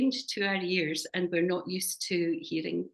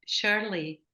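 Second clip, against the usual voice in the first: Scottish-accented name. Shown as a demonstration. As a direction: own Scottish accent on Shirley. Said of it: "I say it with a very Scottish accent".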